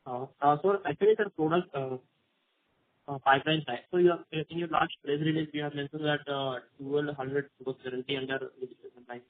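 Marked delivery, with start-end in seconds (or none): 3.9-9.2 muffled. Real, not acted. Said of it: "your voice was a little muffled".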